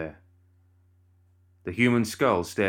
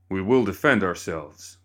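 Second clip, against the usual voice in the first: warning; 4 dB louder than usual. Acted. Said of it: "Cornelius warned".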